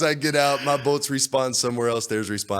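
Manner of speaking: usual speaking voice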